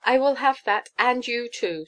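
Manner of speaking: high, loud, emphatic claim; high-pitched triumphant greed; grasping countess. A narrator's reading. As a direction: snap up the offer possessively. Gruffanuff greedily claims money and Giglio.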